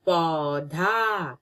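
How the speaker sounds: पौधा drawn out slowly; slow clear naming. Shown as a demonstration. Teacher showing a picture, saying पौधा slowly. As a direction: stretch पौधा for the children. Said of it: "ये है".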